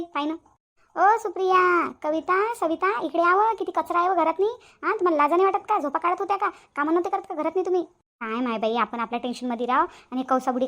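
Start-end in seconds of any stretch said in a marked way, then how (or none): 1.0-7.8 put-on louder and higher calling out and scolding the girls. Aunt scolds the girls about the dirty house, loudly and high. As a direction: yell for them, then tell them off.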